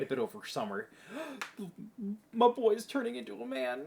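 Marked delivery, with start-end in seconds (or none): 1.6-3.8 proud parent. Pretend.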